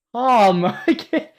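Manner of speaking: calm, shouted loud and high. Shown as a demonstration. Reading Calm again, now loud. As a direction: bark the word Calm out loud. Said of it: "without any sign of her usual calm".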